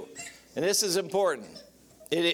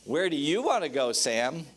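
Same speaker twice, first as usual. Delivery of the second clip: wife insisting; 3 semitones higher than usual. Retold or imitated.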